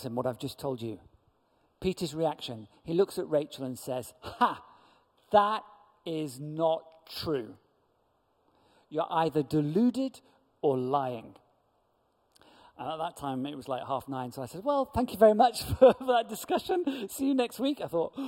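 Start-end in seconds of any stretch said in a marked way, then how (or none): 4.2-11.4 mock scoff, then a slow, louder "not true"; loud sneering disbelief; scornful dismissal. Cynic Peter dismisses Rachel's story. 14.6-17.8 high, loud, nervous laugh through the words; flustered chuckling goodbye; awkward laughing wrap-up. Retold or imitated. Ending the heated discussion awkwardly.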